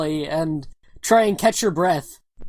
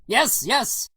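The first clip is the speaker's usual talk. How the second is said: put-on higher Russian-accented voice; brisk agreement in a Russian accent; lightly voiced Russian comrade; 4 semitones higher, 3 dB quieter than usual. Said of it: "that's the Russian buddy".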